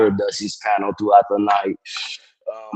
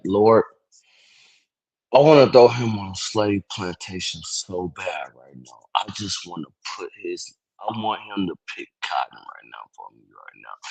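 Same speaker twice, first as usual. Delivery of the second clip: mock prayer; 2 semitones lower than usual. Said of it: "she like".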